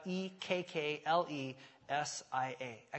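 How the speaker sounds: "E K K L E S I A" slowly, letter by letter; spelling it out. Shown as a demonstration. Pastor spelling the Greek word for the congregation, slow dictation. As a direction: dictate each letter of "E K K L E S I A" slowly for note-takers. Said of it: "phonetically write it out".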